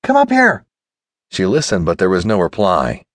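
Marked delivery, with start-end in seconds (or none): 0.0-0.6 high, urgent call to someone below; raised, impatient calling voice. A narrator's reading. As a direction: summon him from below deck, pitched high. Anne calls to Joel below deck.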